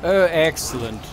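slow, drawn-out mock posh delight; a touch of a plummy aristocrat, savouring it. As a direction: say it like a lightly hammed-up toff. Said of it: "I just put that in a very posh voice".

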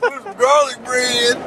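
high, slow hick whine; country hick voice. Retold or imitated. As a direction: drag it out like a country boy. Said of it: "He was like".

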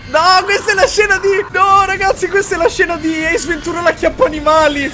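high, loud excited outburst. Real, not acted. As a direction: blurt it out, barely holding laughter. Laughing about Ace Ventura scene.

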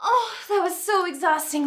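high playful puffed-out voice; mock exhausted. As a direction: gasp like you're worn out. Mock tired after hopping.

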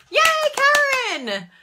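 high, loud, slow cheer; excited cheer. Real, not acted. Cheering a giveaway winner on stream, high loud yay. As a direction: cheer her name out.

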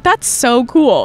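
slow, dreamy delighted; slow, innocent that's so cool; naive enthusiasm. Retold or imitated. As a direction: stretch it out, clueless and charmed. Naive reply in story.

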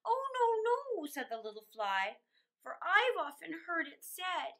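lilting storybook reading; a children's storyteller reading verse; poem reading. A narrator's reading. Reads poem aloud.

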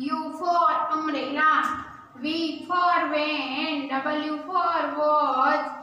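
very slow, drawn-out classroom recitation; alphabet recitation. Shown as a demonstration. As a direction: stretch each word so pupils can join in.

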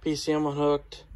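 breathless from the work; winded, talking between breaths. Real, not acted. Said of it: "Man, I'm out of breath on that one".

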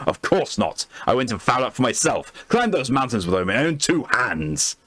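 scoff, then boast of your climbs; Lord Blackwood voice. Acted. Blackwood defends his honour to the doctor, pompous and indignant. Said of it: "I'm gonna have to do a voice for it".

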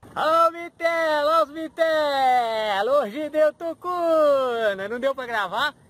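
happy drawn-out hail; drawn-out calling. Real, not acted. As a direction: call it out, stretching every word. Calling out to the camera.

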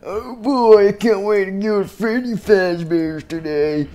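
high, squeaky excited voice; excited Chica. Acted. Chica thrilled to go to Freddy Fazbear's. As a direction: bubble with glee. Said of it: "She was like".

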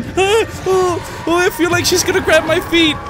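high, anxious voice while fleeing; nervous panic. Real, not acted. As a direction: fret as if someone is behind you. Fleeing, fears being grabbed.

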